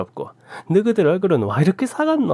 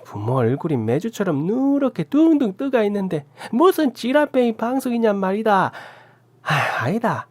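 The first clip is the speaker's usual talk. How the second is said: furious rant; 9 semitones higher than usual. A narrator's reading. Aunt raging at the couple and calling out her nephew. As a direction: tear into them, then threaten the nephew.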